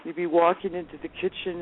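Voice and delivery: normal talking voice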